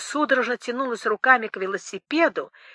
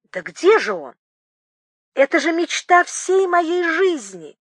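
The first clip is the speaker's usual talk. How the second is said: excited cry; 6 semitones higher than usual. Acted. Collector begging to see the old bicycle, excited cry. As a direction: cry out that this is his life's dream. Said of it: "вскричал возбуждённый".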